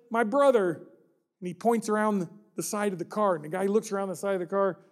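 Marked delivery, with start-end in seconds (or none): 0.1-0.7 put-on higher, tearful child's plea; pleading child. Crying boy begging the driver to stop and help, tearful plea. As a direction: beg the stranger like a crying boy. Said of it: "the kid's just starting to cry".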